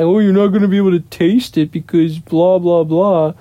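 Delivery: lightly voiced know-it-all friend; mildly mock his smug lecture; a hint of a smug friend talking down; smartass imitation. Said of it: "Eric was being a smartass".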